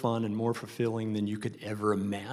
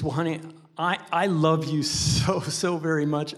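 tender dad voice; 4 semitones higher than usual. Retold or imitated. Father soothing daughter.

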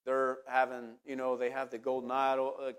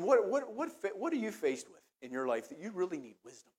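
serious tone; 3 semitones higher than usual. Real, not acted. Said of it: "In a more serious tone".

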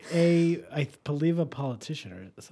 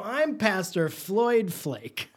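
slow grand intro; 5 semitones higher, much slower than usual. Pretend. Fake host name intro.

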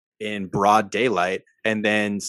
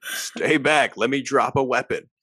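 mock cop; 3 semitones higher than usual. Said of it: "Israeli trained L A P D officer".

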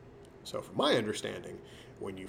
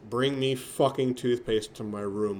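slurred drugged demand; 4 dB louder, slower than usual. Retold or imitated. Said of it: "My mouth eked out".

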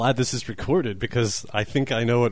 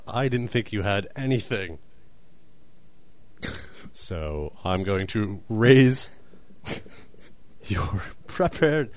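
talking with a clenched jaw; through gritted teeth. Real, not acted. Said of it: "My jaw hurts from clenching it".

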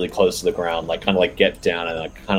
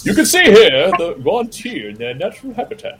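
hushed wildlife documentary narrator; nature documentary; 11 semitones higher than usual. Pretend. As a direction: narrate like a nature film presenter. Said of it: "I'm getting a David Attenborough flashbacks".

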